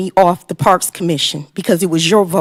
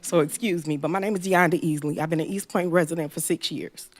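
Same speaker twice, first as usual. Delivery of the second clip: nervous; 8 dB quieter than usual. Real, not acted. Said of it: "I'm not a public speaker like the gentleman before me, so this is kinda hard".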